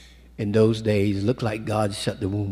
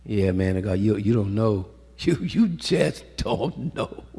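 mock retort. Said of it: "She didn't say".

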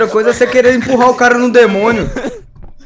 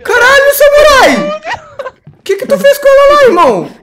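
scared horror game streamer; 11 semitones higher, 4 dB louder, slower than usual. Real, not acted. Horror game, teammate attacked.

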